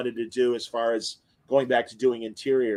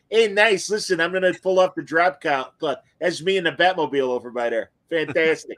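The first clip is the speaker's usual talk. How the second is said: put-on Chicago fan accent; 2 semitones higher than usual. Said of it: "like, total Chicago's".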